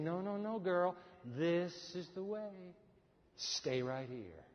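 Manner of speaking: quiet, slow, gentle guiding; soft whisperer's voice. Acted. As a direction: hush them toward the right way. Divine whisperer voiced softly.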